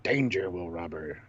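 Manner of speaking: slow, stiff robot monotone; Lost in Space robot warning. Acted. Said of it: "In best robot voice".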